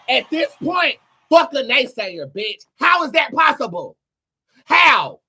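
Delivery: high, loud fervent cry; passionate outburst. Real, not acted. Defying naysayers to her viewers, a loud passionate outburst. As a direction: throw it at the doubters. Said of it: "I got a little passionate there".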